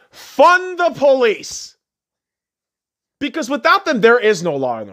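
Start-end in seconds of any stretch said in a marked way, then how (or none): 0.1-1.8 shouted slogan. Real, not acted. Repeats slogan louder.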